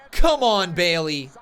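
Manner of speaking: loud cheering call, pitch up on come. Real, not acted. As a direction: call out to spur her on. Cheering on a wrestler.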